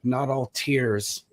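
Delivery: trying not to get choked up, slowing down; getting emotional. Real, not acted. Author nearing the end of all things, getting emotional. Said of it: "I don't wanna get emotional".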